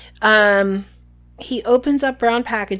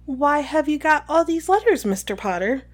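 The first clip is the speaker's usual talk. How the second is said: high, falsely sweet interrogation; girlish official asking pointedly; Umbridge; 5 semitones higher than usual. Acted. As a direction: question sweetly, pitched up at first. Voices Umbridge questioning Harry.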